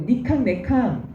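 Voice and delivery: lightly demonstrated Korean dialect; regional dialect. Shown as a demonstration. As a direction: say it as a provincial dialect speaker would. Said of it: "사투리를 쓰는 분은".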